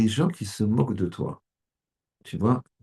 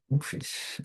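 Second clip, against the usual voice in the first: whispered father; 6 semitones higher, 10 dB quieter than usual. Acted. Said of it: "il t'aime".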